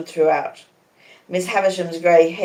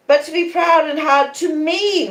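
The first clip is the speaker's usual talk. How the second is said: high, loud shriek; a high, loud shriek of hurt; 11 semitones higher, 4 dB louder than usual. A narrator's reading. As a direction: shriek it, arms outstretched. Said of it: "Miss Havisham quite shrieked".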